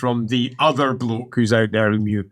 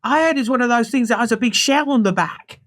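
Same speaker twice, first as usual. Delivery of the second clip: high-pitched, earnest voice; gossiping initiate; 10 semitones higher than usual. Acted. Initiate explaining to companion, acted gossipy voice. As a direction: pass on what you heard.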